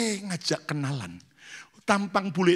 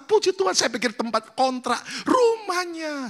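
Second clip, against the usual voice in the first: much higher, near tears with joy; amazed praise; 11 semitones higher than usual. Real, not acted. Pastor telling congregation his surprise, high and choked. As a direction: exclaim in joyful disbelief.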